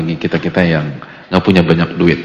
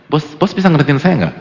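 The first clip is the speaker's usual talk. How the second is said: mock complaint to the boss; 6 semitones higher, 4 dB louder than usual. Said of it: "Kan nggak bilang gitu".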